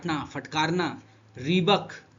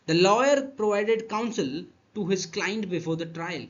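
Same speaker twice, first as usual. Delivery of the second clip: slow sentence reading; 3 semitones higher, 3 dB louder, much slower than usual. Shown as a demonstration. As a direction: read each word very slowly. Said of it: "sentence देखो". (बहुत धीरे वाक्य पढ़ना)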